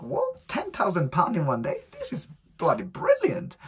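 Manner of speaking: a retold gasp of joy at the money; thrilled disbelief. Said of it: "I was like".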